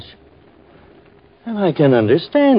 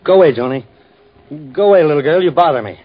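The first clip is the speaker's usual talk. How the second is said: gruff brush-off; 4 semitones higher, 4 dB louder, much faster than usual. Acted. Shoos the girl away.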